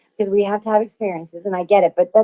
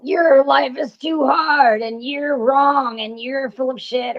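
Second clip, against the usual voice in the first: slow, higher mocking inner critic; a put-on voice for the nagging ego; sneering ego voice; 3 semitones higher, slower than usual. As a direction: taunt yourself like a nasty ego. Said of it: "Ego's like".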